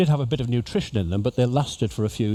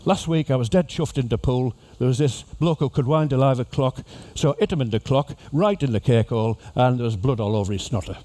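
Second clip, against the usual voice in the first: demonstration sentence in Liverpool accent; Scouse accent. Shown as a demonstration. Model exam sentence for cruise passengers in Scouse accent. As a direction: recite the slang in Scouse. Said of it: "So you have a sentence like".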